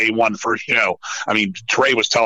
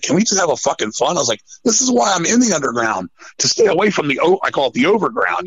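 higher-pitched, exasperated retold plea; retold exasperated protest; 6 semitones higher than usual. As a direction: plead your case, mildly fed up. Retelling his protest to bandmates.

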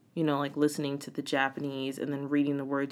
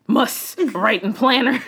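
laughing quote; 6 semitones higher, 8 dB louder, slower than usual. Retold or imitated. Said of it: "I'm like".

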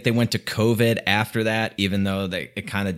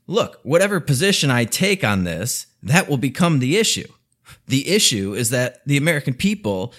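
mock Biden; 4 semitones higher than usual. Podcaster mocking Biden's debate answer in a put-on voice. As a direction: parody the rambling candidate, dragging out the vote plea.

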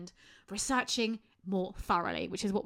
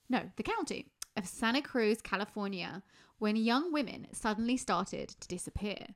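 dramatic true crime narration; documentary narration. A narrator's reading. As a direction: read it like a crime documentary intro. Reads the case intro.

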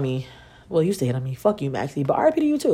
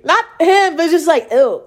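mock disgust; 9 semitones higher, 5 dB louder than usual.

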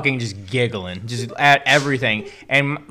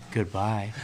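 quiet, low, drawn-out goodbye; eerie goodbye; 6 semitones lower, 11 dB quieter than usual. Retold or imitated. Shroom guy leaving the room, quiet and low. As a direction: fade it out mysteriously. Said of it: "And he's like".

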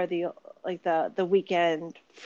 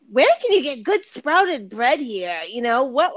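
agency woman; 4 semitones higher, 7 dB louder than usual. Retold or imitated. Agency woman asking about sprouted bread, imitated. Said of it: "and she's like, you know".

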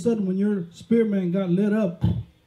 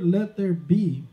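slow emphasis; much slower than usual. Shown as a demonstration. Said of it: "Well, the word".

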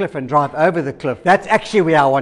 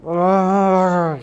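long drawn-out mock groan; reluctant groan. Reluctant reply to God's command.

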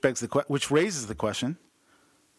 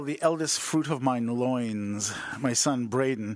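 mock biblical; 2 semitones lower, slower than usual. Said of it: "You, you can't say loins".

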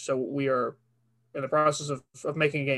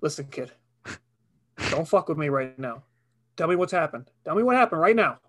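stern detective. Acted. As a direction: lean on the kid, harder. Detective demands the story.

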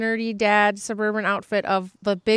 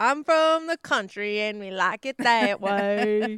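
slow, lower, drawn-out country-guy take; mock country drawl; 4 semitones lower than usual. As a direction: lean back and drawl every word. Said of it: "after my husband says".

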